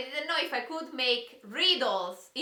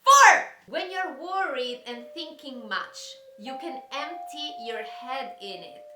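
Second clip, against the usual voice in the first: mysterious riddle reading; 2 semitones lower than usual. Acted. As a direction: read the riddles like a spooky secret. Reads rhyming riddles dramatically.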